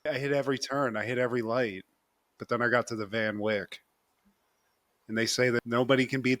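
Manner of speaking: low, even-toned account; monotone. Retold or imitated. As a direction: imitate someone recounting in a flow state. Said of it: "It's, like, very monotone".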